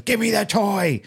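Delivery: put-on high-pitched raging kid demand; mock child tantrum. Child demanding the toy from his uncle, mock raging. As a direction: imitate a four-year-old's tantrum, pitched right up. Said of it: "he really started raging over it".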